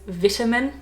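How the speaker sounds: vitamin with a short i, VIT-a-min; British vitamin. Shown as a demonstration. Australian trying the word that feels unnatural, British vitamin. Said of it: "the Brits say vitamin".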